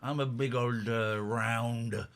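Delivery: put-on slow, lightly done Indian accent. Host joking with a caller about his tummy, Indian accent. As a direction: slip into a mild mock Indian accent. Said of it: "I started doing an Indian accent".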